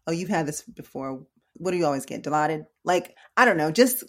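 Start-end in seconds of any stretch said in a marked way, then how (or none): 0.1-2.7 mildly accusatory questioning. Shown as a demonstration. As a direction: question the patient with understated suspicion. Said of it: "the way I said it can be very accusatory".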